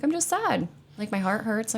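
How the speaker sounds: high-pitched plaintive self-quote; sad admission. Retold or imitated. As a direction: act out owning up to sadness. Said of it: "I'm like".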